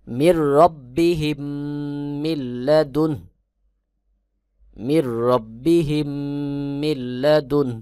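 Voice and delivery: "মিল্লাদুন" ending on a half n and a light breath of h; half-sounded endings. Shown as a demonstration. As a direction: recite "মিল্লাদুন" with both final n and h half-sounded. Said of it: "অর্ধেক অর্ধেক করে". ("মিল্লাদুন"-এর শেষে নুন ও হা অর্ধেক অর্ধেক উচ্চারণ)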